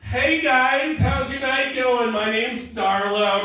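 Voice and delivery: high, slow, drawn-out waitress greeting; mock server voice. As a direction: put on syrupy customer-service cheer. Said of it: "you see them".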